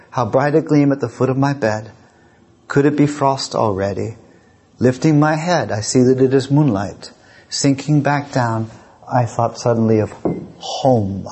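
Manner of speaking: measured, pensive reading with pauses; poem recitation. Acted. Lecturer reciting a homesickness poem to the audience, pensive.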